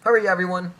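hammed-up rush of urgency; urgent game character. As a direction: call out the alarm, high and pressing. Voicing game dialogue, hurried summons to guild.

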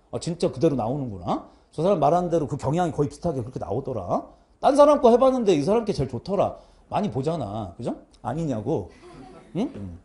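normal talking voice

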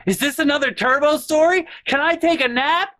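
very high, squeaky mock taunt; mocking sister. Sister mocking her brother's boring story in a squeaky voice. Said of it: "And she'll be like".

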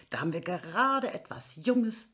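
secretive dealer whisper, like passing contraband. Acted. Pharmacist slipping a customer something fresh, whispering. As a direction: hush it as if offering something shady. Pharmacist offers goods conspiratorially.

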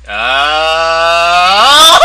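high shrieking laugh; panicked scream laughing. Real, not acted. Panicked burst mid fight.

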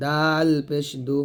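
দাল পেশ দু with light dental d; thin dal. Shown as a demonstration. Teacher says dal is light, thin দাল. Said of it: "দাল তা পাতলা হবে".

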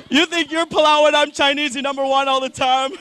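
retelling the shop lady's line at normal speed, lighter mock accent; Chinese accent. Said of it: "realized what she said".

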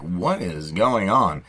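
slow cartoon bulldog voice; Butch Dog voice. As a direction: drag it out like a gruff cartoon dog. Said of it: "Even Butch Dog is like".

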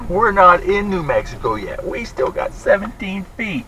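high, laughing correction; amused protest. Real, not acted. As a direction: tease back through a laugh.

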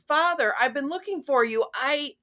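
high, fast and eager; high-pitched princess, breaking off; urgent cry. A narrator's reading. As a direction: rush it out as if running up. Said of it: "Jasmine cried, running up to them".

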